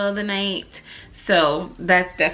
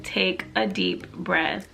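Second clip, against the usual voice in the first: calming husband; 2 semitones lower, 5 dB quieter, much slower than usual. Retold or imitated.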